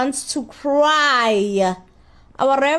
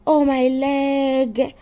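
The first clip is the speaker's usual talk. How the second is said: slow, drawn-out mock whine; mock crying; much slower than usual. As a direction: imitate a man crying over his leg. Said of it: "He's crying and he like".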